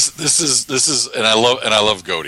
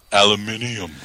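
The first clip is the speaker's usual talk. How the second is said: British aluminium. Retold or imitated. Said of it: "English accent".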